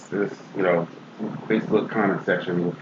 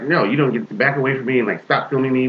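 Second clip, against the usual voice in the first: retold indignant objection; 4 semitones higher than usual. Retold park quarrel, woman objecting.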